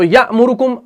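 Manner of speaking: "यअमुरुकुम" with a catch after "य"; hamza jerk. Shown as a demonstration. Teacher explaining it is read with a jerk, hamza jerk. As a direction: cut briefly at the hamza in "यअमुरुकुम". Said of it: "झटके के साथ पढ़ते हैं".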